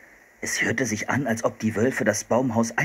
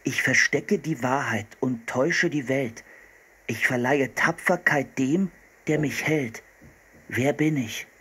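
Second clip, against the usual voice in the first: measured riddle recital; reading aloud; 3 semitones higher than usual. A narrator's reading. Boy reading a riddle to the hunter, measured recital. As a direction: read out the riddle phrase by phrase. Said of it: "las vor".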